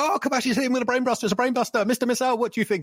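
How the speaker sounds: put-on very high, frantic, rattled-off play-by-play commentator voice. Imitating a wrestling commentator calling a brainbuster: imitating a freaking-out commentator. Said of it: "the commentator would be freaking out".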